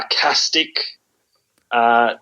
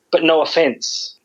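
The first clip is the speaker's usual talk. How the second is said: polite nastiness; 4 semitones higher than usual. Acted. Author addressing God with insults, polite nastiness. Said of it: "polite and nasty at the same time".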